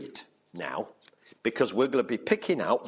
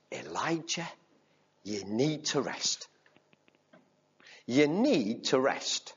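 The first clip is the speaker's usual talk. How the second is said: gentle reassurance. Acted. God telling exhausted Elijah gently to rest. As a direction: tell him kindly to rest.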